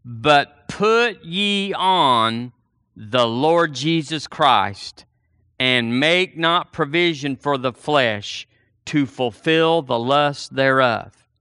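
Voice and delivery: drawn-out, solemn Bible reading; slow scripture reading. Acted. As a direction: lay each word out slowly for the congregation. Reads scripture slowly.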